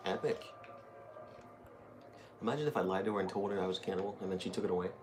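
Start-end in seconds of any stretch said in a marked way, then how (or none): none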